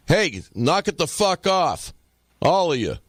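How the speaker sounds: put-on a dad shutting down rowdy kids; retold father yelling at a group of kids.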